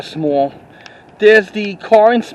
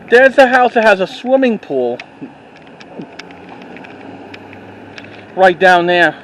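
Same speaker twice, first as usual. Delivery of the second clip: hiccuping. Real, not acted. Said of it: "Sorry, I'm just hiccuping".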